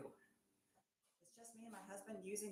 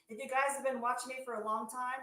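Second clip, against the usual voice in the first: louder, more emphatic; 4 semitones higher, 10 dB louder than usual. Real, not acted. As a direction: push it out with more force. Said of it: "see, can't fake that".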